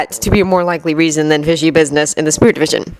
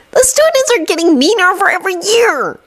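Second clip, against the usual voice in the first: sighing; 14 semitones higher than usual. A narrator's reading. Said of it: "Neville sighed".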